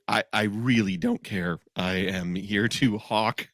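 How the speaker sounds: slow, low don't-care vendor; jaded vendor. Retold or imitated. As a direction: lightly play a bored beer seller. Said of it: "I can tell you their vibe was".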